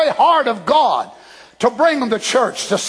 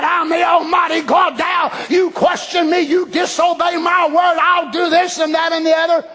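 mock angry God; 4 semitones higher than usual. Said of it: "instead of just swearing himself out".

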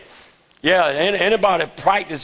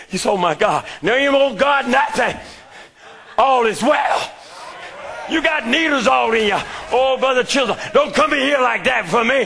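full-force preaching; 3 semitones higher than usual. Acted. Preacher testifying to his church in full-force sermon cadence. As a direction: preach it like the climax of a revival.

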